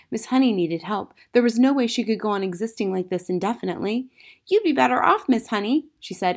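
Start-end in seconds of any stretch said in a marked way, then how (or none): 4.5-5.9 put-on high, louder child's voice; earnest young Matilda. A narrator's reading. Matilda advising her teacher, high and earnest. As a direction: advise like an eager little girl.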